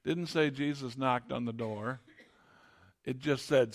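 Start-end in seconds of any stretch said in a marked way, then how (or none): none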